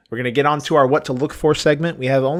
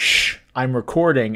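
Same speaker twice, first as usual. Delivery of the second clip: plain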